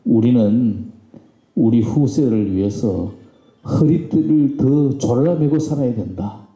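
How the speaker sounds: solemn retold exhortation; very earnest. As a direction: quote the boss earnestly, pausing between phrases. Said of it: "아주 진지하게 하시는 말씀이".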